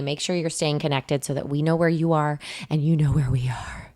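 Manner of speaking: hushed creepy stalker whisper. Acted. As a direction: make the promise sound sinister. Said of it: "get into my creepy voice".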